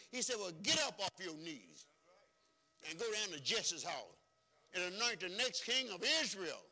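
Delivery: high, loud preacher's storytelling; preaching at full force. Acted. Preacher telling the church of Samuel, at full force. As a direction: drive the story home to the congregation.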